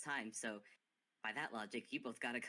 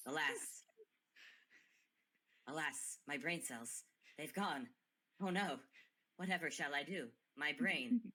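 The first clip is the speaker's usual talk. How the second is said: mock lament. Mock lament over brain cells.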